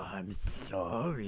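very low, slow, seductive sorry; a sexy, drawn-out apology; sultry sorry. Pretend. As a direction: purr the apology like a come-on. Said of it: "I don't appreciate how sorry that is".

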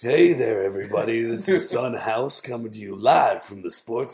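hoarse sultry host voice; raspy put-on sexy voice. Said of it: "when I talk in a super sexy voice".

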